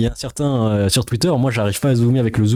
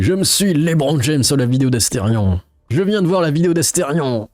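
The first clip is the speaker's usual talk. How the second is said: reading a meme; 4 semitones higher than usual. Retold or imitated. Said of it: "Il y en a un qui dit".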